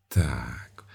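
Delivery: plain reading voice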